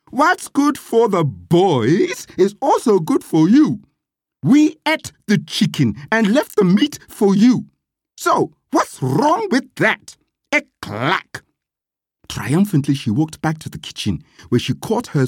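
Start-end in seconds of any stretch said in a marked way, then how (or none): 0.1-11.4 high, emphatic, defiant comeback; blunt retort. A narrator's reading. Gladys gives the master what was coming, defiant. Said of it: "She didn't mince her words".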